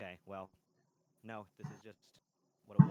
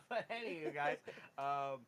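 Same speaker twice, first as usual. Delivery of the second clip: muffled; 4 semitones higher, slower than usual. Real, not acted. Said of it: "you sound kinda, like, muffled".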